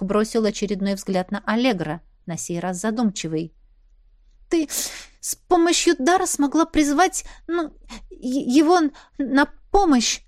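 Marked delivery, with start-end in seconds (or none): 4.5-10.2 stammering. A narrator's reading. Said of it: "запинаясь, спросила я".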